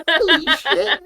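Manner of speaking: high laughing "holy shit"; shrieking with laughter, amazed; laughing amazement. Retold or imitated. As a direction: crack up in disbelief. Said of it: "I was like".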